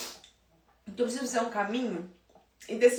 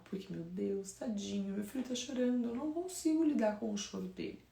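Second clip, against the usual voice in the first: softer, pitying worried-mom voice; a hint of a fretful mother; 7 dB quieter than usual. Mother who pulls crying child from car seat, softly fretting. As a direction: play the anxious mother, quietly.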